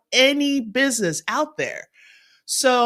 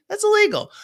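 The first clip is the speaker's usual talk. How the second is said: higher, playful mock scolding; jokingly high-pitched legal warning; 12 semitones higher, 4 dB louder, faster than usual. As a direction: tease them with a fake warning. Jokey aside after grab joke.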